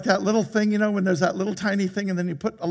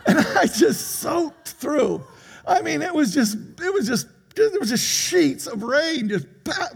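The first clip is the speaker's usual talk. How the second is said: laughing; 8 semitones higher, slower than usual. Real, not acted. Laughing about the downpour.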